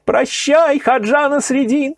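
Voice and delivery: high calls of farewell after him; farewell cries. A narrator's reading. Weeping crowd calling farewell to Nasreddin, high cries. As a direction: call after him, grieving and loving. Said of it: "кричали ему вслед".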